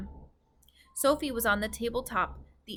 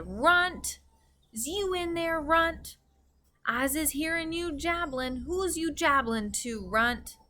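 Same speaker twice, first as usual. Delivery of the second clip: big giant bellowing Runt; thunderous giant shout; 7 semitones higher than usual. A narrator's reading. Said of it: "a voice like thunder shouted".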